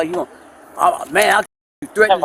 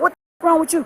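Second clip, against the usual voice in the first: retold outburst; 12 semitones higher, 3 dB louder, faster than usual. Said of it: "I said".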